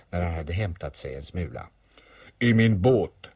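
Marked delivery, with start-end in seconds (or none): 2.4-3.3 louder, proud announcement. Acted. Bear tells boy how he came, proudly. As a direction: say it with a touch of pride. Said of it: "sa Py stolt".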